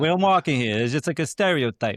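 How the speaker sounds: loud, high exaggerated Brooklyn accent. Shown as a demonstration. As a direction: lay the Brooklyn accent on thick. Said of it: "and then Brooklyn".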